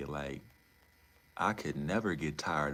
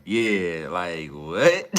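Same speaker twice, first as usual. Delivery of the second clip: mock surprise; 3 semitones higher, 11 dB louder, much slower than usual. Mock reaction, louder.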